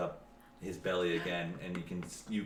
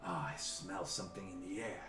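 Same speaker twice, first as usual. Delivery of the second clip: sniffing ogre; 5 dB quieter than usual. Acted. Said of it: "the ogre starts saying".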